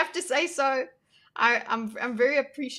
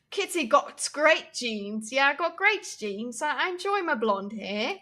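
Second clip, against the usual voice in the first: posh English accent. Shown as a demonstration. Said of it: "Can I do a posh English accent?".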